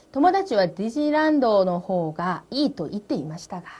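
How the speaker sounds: very slow, careful Japanese; slow model reading. Shown as a demonstration. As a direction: read it slowly for learners. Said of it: "teacher reads model line".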